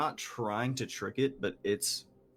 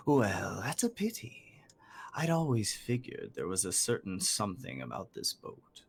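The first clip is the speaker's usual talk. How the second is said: stately bird, mildly let down; gargantuan bird, disappointed; 2 semitones lower than usual. Acted. Game master voices giant bird.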